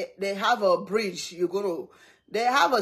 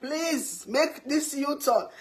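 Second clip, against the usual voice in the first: mock panicked begging, raised voice; imitated screaming pleas; 3 semitones higher than usual. Everybody in the car begs not to enter Canada, mock screaming. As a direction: plead as a frightened carful, half-acted. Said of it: "Everybody's screaming".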